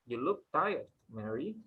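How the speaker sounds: teacher modelling, stress on "tired"; model sentence stress. Shown as a demonstration. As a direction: model it for the class. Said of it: "Just repeat after me".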